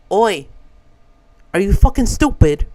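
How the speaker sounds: lightly imitated British accent, confrontational; a loose attempt at a British accent. English man scolds a traveler over luggage, British accent. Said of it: "He said it in a very British accent".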